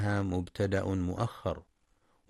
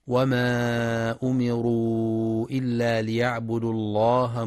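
Quran recitation; 3 dB louder than usual. Acted. Teacher reciting the verse on sincere worship. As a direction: chant it with long melodic vowels.

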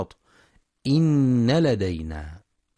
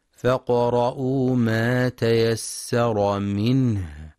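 slow chant with the final ha of منه breathed out clearly; Quranic recitation; 2 semitones higher, slower than usual. Acted. (تلاوة بإظهار الهاء)

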